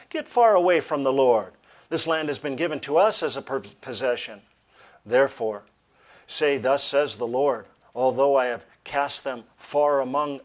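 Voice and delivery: loud, emphatic scripture reading; projected Bible reading. Real, not acted. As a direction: read it out to a congregation with weight. Reads scripture aloud to congregation.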